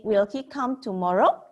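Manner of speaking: asked as a question, rising at the end; a plain English yes-no question. Shown as a demonstration. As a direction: ask it simply, voice lifting. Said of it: "So we just say".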